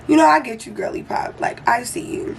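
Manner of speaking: supportive. Retold or imitated. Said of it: "I was being supportive".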